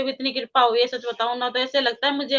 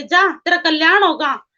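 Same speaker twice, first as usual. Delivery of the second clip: slow, louder pronouncement of a blessing; retold blessing; 6 dB louder, slower than usual. Guru blessing a new follower, slow and emphatic. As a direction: imitate a guru bestowing a blessing, drawn out. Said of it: "ऐसे हाथ रख के बोलते हैं".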